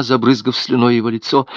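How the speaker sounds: ordinary delivery, nothing marked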